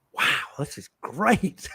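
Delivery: slowed, mock-naive "wow"; naive delight. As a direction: act the fooled newcomer.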